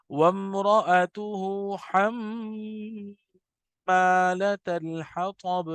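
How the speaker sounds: "حمالۃ" with the doubled میم held and hummed; slow chanted recitation, nasal hum on حمّالة; ghunna on meem. Shown as a demonstration. Teacher recites Surah Lahab to show meem ghunna, slow and chanted. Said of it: "حما نہیں پڑھا".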